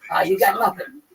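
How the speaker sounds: heated retort. Retold or imitated. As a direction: fire back at the bully. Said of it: "I went".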